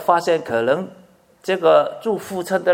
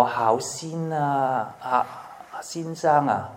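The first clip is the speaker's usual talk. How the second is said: mock heartbroken; 2 semitones lower, 9 dB quieter, much slower than usual. Mock wounded grudge holder.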